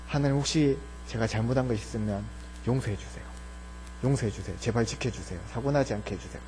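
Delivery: low, hushed plea to God; soft, low begging for forgiveness; anxious pleading prayer. Acted. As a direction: pray quietly under your breath, low and worried. Acted anxious private prayer for forgiveness.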